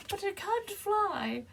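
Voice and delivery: high squeaky scared little character; Petrie. Acted. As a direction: squeal it high and slow, playing timid. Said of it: "too afraid to fly".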